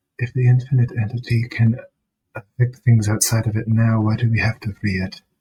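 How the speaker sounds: low under-the-breath muttering. Voicing a character muttering a doubt, loud enough for another to hear: muttering under his breath. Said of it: "Under his breath".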